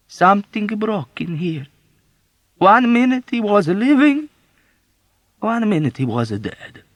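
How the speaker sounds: high, loud, slowed lament; mournful old woman. Acted. Old woman mourning the old man's death to Yossarian. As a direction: grieve over every word.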